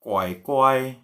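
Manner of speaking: careful tone demo of "kue kue"; changed intonation. Shown as a demonstration. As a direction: draw out "kue kue" on a sustained tone. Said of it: "kalau intonasinya jadi".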